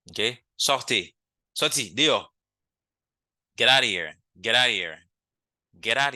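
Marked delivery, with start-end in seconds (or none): 3.6-6.1 mock order to leave. Shown as a demonstration. Teacher acting out telling someone off.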